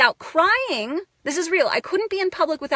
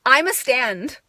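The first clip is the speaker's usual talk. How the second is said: normal talking voice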